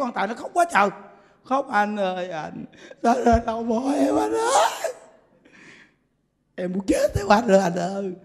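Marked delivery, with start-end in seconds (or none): 1.7-8.1 mock wailing widow.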